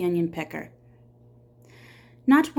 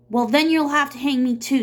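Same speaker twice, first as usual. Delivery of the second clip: defiant; 6 semitones higher, 6 dB louder than usual. Acted. Defiant retort to sheriff.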